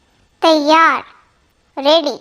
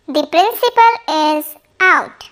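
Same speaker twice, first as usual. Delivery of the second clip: slow it down, every word clear; unhurried model sentence for learners; slow, careful repeat. Shown as a demonstration. Teacher repeating the sentence slowly for students. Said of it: "teacher models sentence twice".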